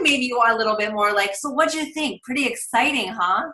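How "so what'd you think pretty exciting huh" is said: higher, eager follow-up call; imitating a cheerful rep checking in; upbeat and positive. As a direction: sound excited to hear back from them. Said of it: "coming from that voice of positive".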